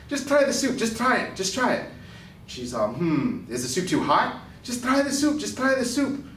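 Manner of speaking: put-on New York Jewish accent, storytelling. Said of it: "I've gotta tell it in a Jewish accent".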